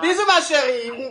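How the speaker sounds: laughing goodbye. Real, not acted. Host laughs saying goodbye.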